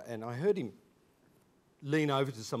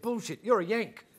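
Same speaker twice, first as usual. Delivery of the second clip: higher, louder retold scoff; scoffing disbelief; 9 semitones higher, 6 dB louder than usual. New classmate doubting his origins, scoffing disbelief. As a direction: blurt out flat disbelief as a classmate.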